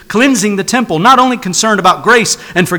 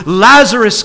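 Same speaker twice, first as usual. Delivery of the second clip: mildly raised preacher's call; crying out loudly; 3 semitones higher, 4 dB louder than usual. Acted. Preacher voicing Jesus calling a dead friend, crying out. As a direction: call the name out, a touch louder. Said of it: "cried out with a loud voice".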